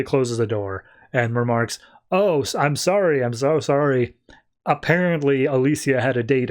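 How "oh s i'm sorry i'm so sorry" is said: lightly acted embarrassment; flustered apology. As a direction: apologize hastily, as if walking in on someone. Walks in on roommate's date.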